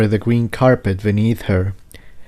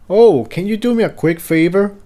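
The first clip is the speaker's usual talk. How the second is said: Jigsaw asking; 10 semitones higher than usual. Acted. Jigsaw asks Tiptoe a favor.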